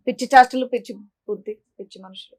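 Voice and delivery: low grumble fading to barely audible; disgusted muttering. Real, not acted. Woman grumbles at crazy behaviour after scolding guests, muttering. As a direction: trail away muttering under your breath.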